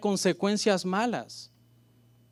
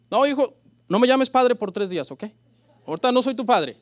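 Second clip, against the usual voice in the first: louder, lightly voiced stern father; mock stern father; 4 semitones higher, 5 dB louder than usual. Preacher plays a father disowning his son, mock stern. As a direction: play a petty father scolding his son.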